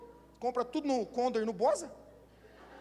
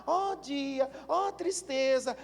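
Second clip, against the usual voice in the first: gloomy Wally; much slower than usual. Retold or imitated. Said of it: "E ele andava assim".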